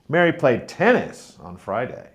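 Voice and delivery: tennis lifted and lengthened; stress on tennis. Shown as a demonstration. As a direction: punch the word tennis. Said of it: "not football".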